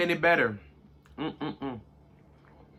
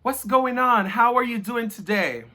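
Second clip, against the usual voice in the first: put-on American accent; 4 semitones higher than usual. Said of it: "They want".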